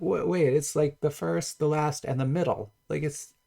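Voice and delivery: rising, disbelieving squeak; incredulous disbelief. Retold or imitated. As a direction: act stunned someone found it hard. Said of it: "I'm like".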